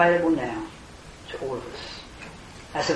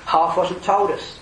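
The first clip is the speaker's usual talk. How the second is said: higher and slow, full of wonder; amazed exclamation; 4 semitones higher, 4 dB louder, slower than usual. Pretend. Preacher voicing believers' wonder, slow and raised. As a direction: say it like the Queen of Sheba overwhelmed. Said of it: "like Queen of Sheba".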